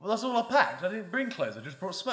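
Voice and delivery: high, fading mock teen excuse. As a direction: squeak the excuse, trailing off. Mocking girl's excuse.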